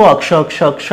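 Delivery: अक्ष with a vowel after the first sound, a-kṣa; common Maithili akṣ. Shown as a demonstration. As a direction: say अक्ष as "akṣa", vowel before kṣ. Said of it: "बोलते हुए आ रहे हैं".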